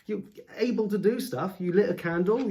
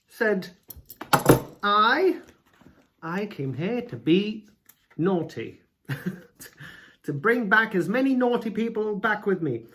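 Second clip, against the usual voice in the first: mock Matthew; 4 semitones higher, 3 dB louder than usual. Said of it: "he's got a knife".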